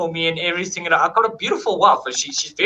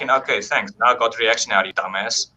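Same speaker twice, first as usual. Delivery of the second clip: cool and calm; 8 semitones lower than usual. Retold or imitated. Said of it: "like, cool and calm".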